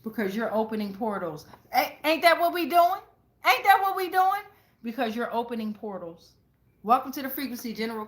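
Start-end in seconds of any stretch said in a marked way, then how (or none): 1.7-4.4 excited. Real, not acted. Excited at portal reading.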